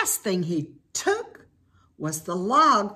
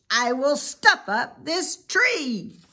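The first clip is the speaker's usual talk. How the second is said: louder, sly villain growl; Grinch voice; 6 semitones higher, 3 dB louder than usual. Acted. Grinch plotting to take the tree, sly villain. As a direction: gloat like the Grinch.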